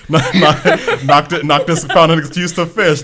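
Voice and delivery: cracking up while telling it; laughing. Real, not acted. Laughing, retelling Noctis fishing.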